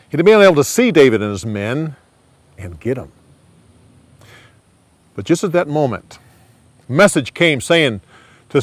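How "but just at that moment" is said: plain reading voice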